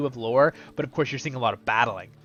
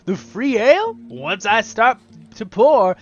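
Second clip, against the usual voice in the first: high, loud, merry innkeeper; jolly innkeeper voice; 6 semitones higher, 7 dB louder, slower than usual. Acted. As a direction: pour on the tavern cheer. Voices the innkeeper offering ale.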